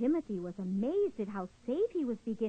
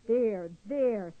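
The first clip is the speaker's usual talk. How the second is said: comforting; 5 dB louder than usual. Acted. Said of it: "as they all patted Louis Timothy's shell".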